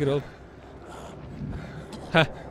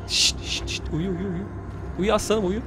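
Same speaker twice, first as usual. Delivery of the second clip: soothing; 3 semitones lower, 7 dB quieter than usual. Real, not acted. Lulling a character to sleep.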